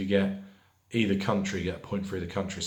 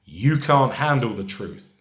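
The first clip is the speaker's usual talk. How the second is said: louder, mildly acted outburst; forceful film quote; 3 semitones higher, 6 dB louder than usual. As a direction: punch it out like a quoted movie line. Film quote repeated for quiz.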